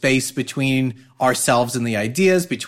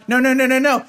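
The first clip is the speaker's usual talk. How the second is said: mock wailing no; 11 semitones higher, 4 dB louder, faster than usual. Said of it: "started crying".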